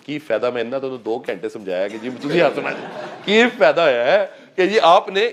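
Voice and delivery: lightly voiced grumbling student in Punjabi tones; a hint of a fed-up trainee whining; mock complaining trainee. Trainer mimics a trainee complaining about smiling, mild mock grumble.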